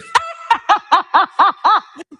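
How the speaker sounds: high burst of laughter, fading down; real delighted laughter. Real, not acted. Reacting to viewer's story.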